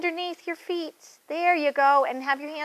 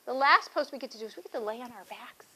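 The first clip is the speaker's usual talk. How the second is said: whisper; 3 semitones lower, 8 dB quieter, faster than usual. Real, not acted. Winding down for resting pose.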